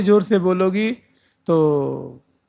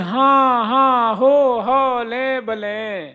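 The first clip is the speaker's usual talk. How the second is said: higher hushing हाँ हाँ, हो हो; hushing the sakhis; 4 semitones higher, slower than usual. Retold or imitated. Elder sakhi hushing the chattering friends, higher-pitched. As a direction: shush the friends urgently but lovingly. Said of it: "तो वही कह रही हैं".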